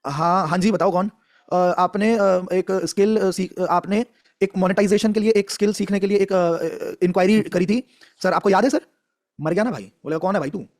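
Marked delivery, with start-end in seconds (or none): 1.5-8.8 hesitant caller. Shown as a demonstration. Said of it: "अभी मैं एक कॉल करूंगा".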